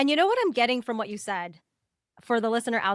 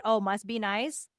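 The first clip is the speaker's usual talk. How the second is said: a touch of dry sarcasm, a little slow; sarcastic; slower than usual. Retold or imitated. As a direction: slowly let a mild eye-roll show. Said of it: "in a sarcastic way".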